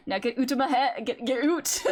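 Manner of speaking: Scottish "out" said as "oot"; hammed-up Scottish governor shooing them off; Scottish accent. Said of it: "I love the word oot".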